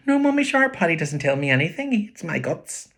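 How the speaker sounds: put-on high, sulky little boy; complaining boy about his brother; young boy voice. Boy voice in story.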